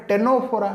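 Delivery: ଟେନୋଫୋରା starting on a T sound; silent C. Shown as a demonstration. Teacher explains C is silent, ଟେନୋଫୋରା modelled from the T. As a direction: say ଟେନୋଫୋରା with no C at the front. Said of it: "ଏଇଠି ମଧ୍ୟ ସିଟା silent ରହୁଛି".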